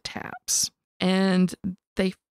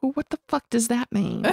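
baffled; 4 semitones higher, faster than usual. Retold or imitated. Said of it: "And I'm like".

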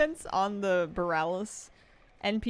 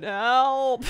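loud, higher mock yell for help; Kul Tiran cry for help; 5 semitones higher, 9 dB louder than usual. Streamer repeating the Kul Tiran's cry, loud mock yell. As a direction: shout help like a hammy sailor. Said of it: "the Kul Tiran just going".

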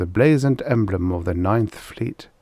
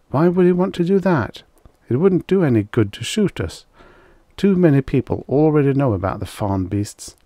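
higher, lightly voiced hunter arguing back; 5 semitones higher, 3 dB louder than usual. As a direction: argue it in a slightly raised pitch.

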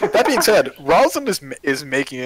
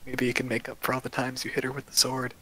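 tiny tinkling snowflake whisper; 9 dB quieter than usual. Acted. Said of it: "you hear a tiny voice next to your that goes".

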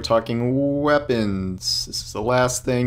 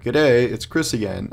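light Aussie twang, a bit slow; a touch of Australian; Australian accent. Pretend. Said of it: "in an Australian accent".

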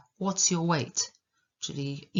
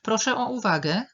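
raised, higher and louder announcement; calling for attention; 7 semitones higher, 6 dB louder than usual. Acted. Someone asking a meeting for attention, calling out. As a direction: call the room to order. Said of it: "czyli jeżeli ktoś mówi".

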